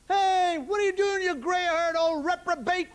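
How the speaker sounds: high, drawn-out matey greeting; hearty friendly insult. Acted. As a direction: hail an old pal with affectionate abuse. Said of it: "when we were actually being friendly with people".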